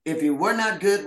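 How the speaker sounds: imitating a thick German accent. Actress quoting her director at the premiere, imitated German accent. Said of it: "with his thick German accent".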